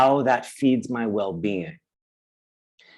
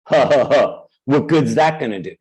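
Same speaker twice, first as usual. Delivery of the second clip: dismissive scoff; 2 semitones lower than usual. Pretend. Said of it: "See, I just left it".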